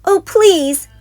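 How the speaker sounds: high, loud begging; pleading shout. A narrator's reading. Cubs shouting at Mama for the toys. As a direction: beg at the top of their voice. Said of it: "they shouted".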